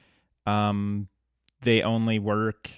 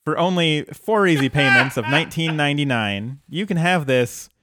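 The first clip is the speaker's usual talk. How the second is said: hard sell ad; 2 semitones higher than usual. Pretend. Mock infomercial pitch.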